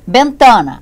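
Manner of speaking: Bentana with middle TA stressed, loud; stress on penultimate syllable. Shown as a demonstration. Teacher introducing an example word, Bentana stressed on TA. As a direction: lean on TA in Bentana. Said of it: "sílaba tônica".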